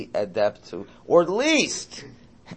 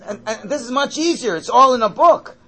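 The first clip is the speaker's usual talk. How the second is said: emphatic; 11 semitones higher, 9 dB louder than usual. Real, not acted. Lively point with laugh.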